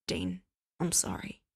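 low, tearful apology; face crumpling. A narrator's reading. Cass apologizing to Dean, about to cry. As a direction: let the voice crack into tears. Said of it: "Cass felt his face crumple".

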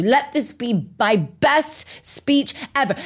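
slow, heartfelt plea; slow earnest prayer. Retold or imitated. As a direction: pray it slowly, as a mantra. Retold prayer repeated, building.

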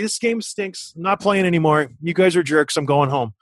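mock temper tantrum. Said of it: "I threw a temper tantrum".

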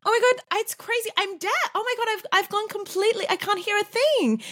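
squeaky high pretend-deaf voice; mock deafness. Imitating Sonia playing deaf, squeaky and high. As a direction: ham up not hearing a thing. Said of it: "she's, like, miming".

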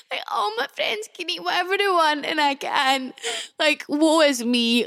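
milk the self-pity for laughs; tongue-in-cheek woe-is-me moan; mock self-pity. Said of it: "I really had a lot of self-pity".

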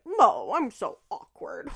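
drawn-out mock-awkward voice; awkward creator. Imitating a creator playing up being likably awkward, drawn-out mock-awkward. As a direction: stretch it out like an awkward influencer. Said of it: "likable in that way that she's like".

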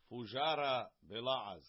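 Fujara Bela'az in a hammed-up French accent, ending nasal; mock French accent. Shown as a demonstration. Teacher tries a French accent while reading Rashi's term, lightly. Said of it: "I gotta work on my French accent".

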